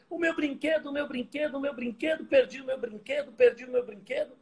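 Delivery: high, wailing, a mock crying child; imitating child's sob. Father mimics his daughter sobbing over a lost toy, mock wail. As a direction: whimper it like a small girl lost her toy. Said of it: "aquele choro compulsivo".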